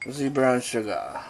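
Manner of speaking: slow mock-French accent; bad French accent. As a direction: fake French, drawn out. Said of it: "a really bad French impression".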